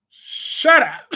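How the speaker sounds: high burst of real laughter; laughing. Real, not acted. Laughing hard at a friend's joke about Chase.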